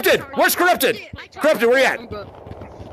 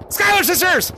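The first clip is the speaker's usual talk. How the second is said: scream; 7 semitones higher than usual. Real, not acted. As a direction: belt it out on three. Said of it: "we're screaming the song".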